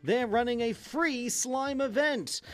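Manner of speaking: hammed-up infomercial pitchman. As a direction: sell it like a late-night TV ad. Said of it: "I'm gonna turn into my, um, infomercial voice there".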